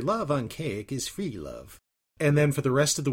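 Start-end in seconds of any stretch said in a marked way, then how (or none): 0.0-1.8 slow, drawn-out impression of a nasal old recording; Al Bender. Co-host recalling their weekend running gag, nasal mimicry. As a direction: stretch the words out in mimicry. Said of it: "the first time you did your".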